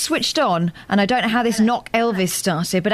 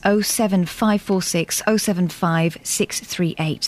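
slow and clear; 2 semitones lower, slower than usual. Shown as a demonstration. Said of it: "absolutely clear".

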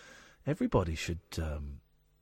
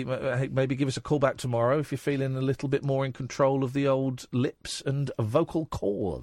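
very polite. Retold or imitated. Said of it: "we might very politely say".

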